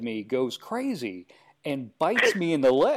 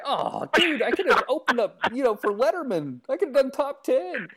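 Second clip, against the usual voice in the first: high-pitched retold exasperation; mock-aggrieved complaint; exasperated; 9 semitones higher than usual. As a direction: lament a missed chance, voice pitched up. Acting his frustrated reply to cameraman.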